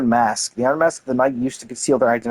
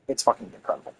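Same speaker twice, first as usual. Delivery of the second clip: awed hush; 8 dB quieter, faster than usual. Real, not acted. Awed reaction to artifact lore.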